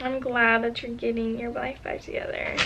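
softly moved, holding it in; a little emotional. Real, not acted. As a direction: read it softly, touched and proud. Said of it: "I got a little emotional there".

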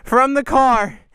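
breathless after climbing steps; out of breath. Real, not acted. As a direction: talk while catching your breath. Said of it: "I'm so out of breath".

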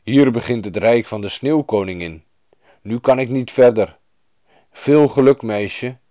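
lightly voiced reindeer guide; a hint of an animal character; talking reindeer. A narrator's reading. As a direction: bid farewell as a storybook animal. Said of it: "Het rendier bracht haar een eind op weg en zei".

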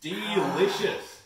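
slow, gagging on the drink. Real, not acted. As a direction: force it out through a gag. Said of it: "just see me gagging".

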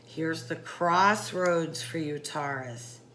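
slow, grave, sinking low on Taurus; deep concerning voice. Shown as a demonstration. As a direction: make the crossroads sound ominous. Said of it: "I say that in that deep, concerning voice".

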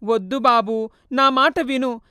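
understated sorrowful goodbye; sorrowful farewell. Acted. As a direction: ghost saying goodbye for good. Mother's farewell.

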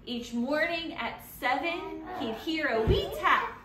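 put-on reading to children. A narrator's reading.

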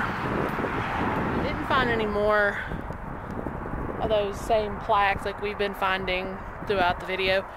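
talking out of breath after walking; breathless, words pushed out between breaths. Real, not acted. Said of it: "sorry, I'm out of breath".

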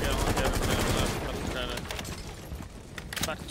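talking around a dip; words around a wad of tobacco; lip full of dip. Real, not acted. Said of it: "I got a dip in my mouth".

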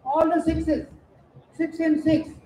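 calling out the numbers; sing-song number calls for the hall; bingo caller. Acted. Housie numbers called to players.

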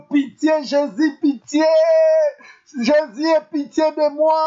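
crying out for mercy. Shown as a demonstration. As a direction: cry out to Jesus for mercy. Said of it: "est-ce que quelqu'un peut crier".

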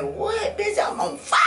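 a mock-cocky cry pitched high, laughing through it; cocky triumph. Comedian replaying her big stage moment, laughing mock-triumphant shout. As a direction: brag like the whole room just exploded for you. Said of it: "I'm like".

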